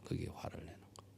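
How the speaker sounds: "그게 화를 내는 거예요" in a fast breathy whisper; whispered echo. Shown as a demonstration. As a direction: whisper the words back as an echo. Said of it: "whispered echo".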